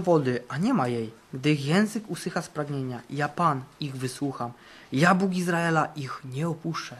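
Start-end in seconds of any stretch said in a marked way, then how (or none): none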